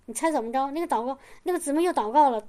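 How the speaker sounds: ordinary delivery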